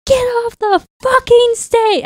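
high, loud re-enacted scream; retold angry scream. Retelling screaming at a band at a concert, high angry yell. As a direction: scream it out as your furious younger self. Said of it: "I started screaming at them".

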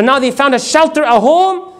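mildly indignant, rising to a high question; angry disbelief. Acted. Quraysh hearing the Muslims found a home, indignant. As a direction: pitch climbs in acted outrage. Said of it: "the people of Quraysh were so angry".

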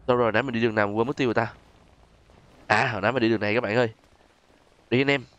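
ordinary delivery

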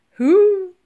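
high, loud hoot; mammoth joining in. A narrator's reading. Mammoth joins the men's cheer, hooting. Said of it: "joined in Woolly".

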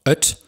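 öt with a glottal onset and a short vowel; öt spoken as an example word; demo pronunciation. Shown as a demonstration. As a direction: model öt clearly for students. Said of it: "Wäre dieser Punkt nicht da".

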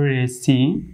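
রেসিটেশন split slowly as "re-si ... tay-shn"; short "si", never "sigh"; corrected pronunciation. Shown as a demonstration. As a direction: model "res-i-TAY-shn" in careful pieces. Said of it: "সঠিকপূর্ণভাবে উচ্চারণ করতে হবে".

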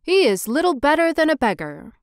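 a hint of a sniffy mayor; mayor's verdict. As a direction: look down on the statue. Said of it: "said the mayor".

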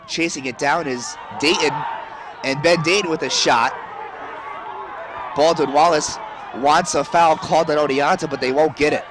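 rising shout on the attack; excited play-by-play. Real, not acted. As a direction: call the shot with a burst of energy. Shot on goal, live call.

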